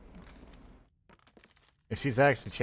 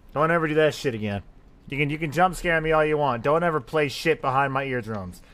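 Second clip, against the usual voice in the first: louder, higher rattled telling-off; loud shaken complaint; shaken scolding; 3 semitones higher, 5 dB louder than usual. Real, not acted. Scolding the game after scare.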